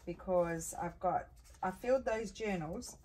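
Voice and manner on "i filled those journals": talking through hiccups; hiccuping mid sentence. Real, not acted. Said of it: "excuse me, I got the hiccups".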